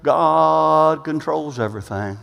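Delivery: slow, drawn-out resigned shrug; mock complacency. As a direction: play someone lazily leaving it all to God. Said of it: "get complacent and just kinda say".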